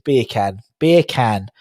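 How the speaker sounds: "beer can" sounding like Jamaican bacon. Shown as a demonstration. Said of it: "a Jamaican fella saying bacon".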